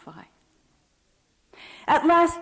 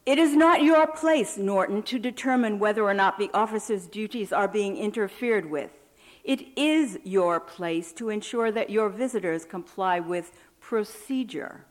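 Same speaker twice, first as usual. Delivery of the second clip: annoyed rebuke. Acted.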